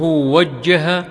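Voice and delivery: وجه with "a" on the waw and a doubled jim; fatha, doubled jim. Shown as a demonstration. Reader glossing a word of the hadith, وجه as "wajjaha" with doubled jim. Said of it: "بفتح الواو وتشديد الجيم".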